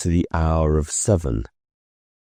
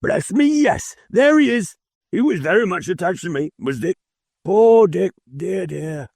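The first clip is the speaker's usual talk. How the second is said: put-on fond old Scrooge; 13 semitones higher than usual. A narrator's reading. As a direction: lighten up then sigh over poor Dick. Scrooge fondly remembers Dick.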